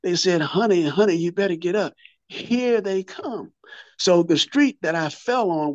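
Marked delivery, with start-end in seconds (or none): 0.4-3.5 drawn-out mock slow-motion warning; a hint of a slowed-down warning, slowed right down at the end. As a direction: stretch the words like a slowed-down film. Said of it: "like they said it in slow motion".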